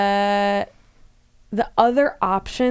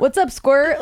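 a hint of a cool older brother; casual cool-guy greeting to a kid; cool dude voice; 5 semitones higher, 4 dB louder, slower than usual. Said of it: "punk thing where they're like".

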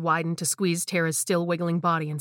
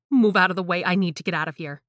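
desperate plea; 4 dB louder than usual. Acted. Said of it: "I begged".

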